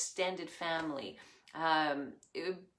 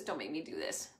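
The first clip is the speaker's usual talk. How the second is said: softer, lower begging repeat; quieter pleading; 4 semitones lower, 5 dB quieter, faster than usual. Acted. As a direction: let the plea fade down. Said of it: "Moses pleads with God".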